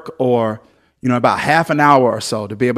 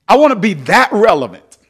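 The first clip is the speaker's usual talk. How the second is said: laughing; 7 semitones higher, 4 dB louder than usual. Real, not acted. Laughing boast to congregation.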